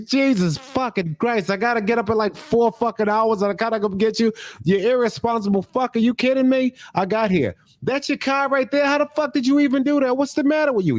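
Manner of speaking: high, exasperated mock rant with fast swearing; a hammed-up Boston friend cursing you out for the 2am pickup; mock grumbling friend. Friend complains about the late-night pickup in a hammed-up high rant.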